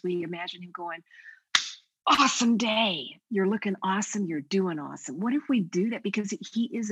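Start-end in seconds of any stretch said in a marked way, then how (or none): 2.1-5.2 louder, enthusiastic cheer; upbeat praise. Pretend. Jesus praising her after a long day, upbeat and loud.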